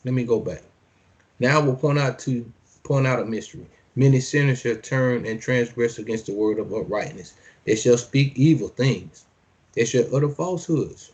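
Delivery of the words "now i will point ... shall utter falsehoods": measured preacher's reading; scripture reading. Acted. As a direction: declaim each line like a decree. Reads scripture aloud.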